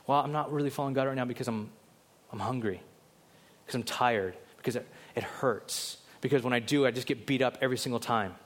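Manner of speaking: low, quick, mild mock excuses; excuse-making. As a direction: offer feeble excuses in a subdued voice. Acting out someone making excuses.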